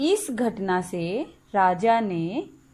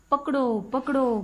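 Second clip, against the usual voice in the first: a mild mock shout, higher in pitch; parrot shouting; 5 semitones higher than usual. Parrot shouting at the king to catch him, mild mock shout. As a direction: call out as if raising the alarm, lightly acted. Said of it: "जोर जोर से चिल्लाने लगा".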